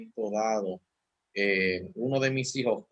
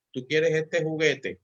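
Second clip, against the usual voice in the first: put-on gentle question to child; 4 semitones higher, slower than usual. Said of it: "yo le preguntaba".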